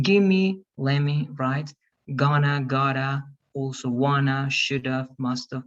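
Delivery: "gonna" and "gotta" said as single linked words; linked reductions. Shown as a demonstration. Teacher showing students examples of linking, words run together as in "lemme". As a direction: run each pair together as one word, like "gimme". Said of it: "That's linking".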